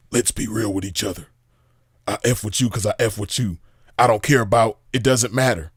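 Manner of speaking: low, soft mock of the guy on the recording; mocking imitation. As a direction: lightly mimic his hushed tone. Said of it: "Who talks like that?".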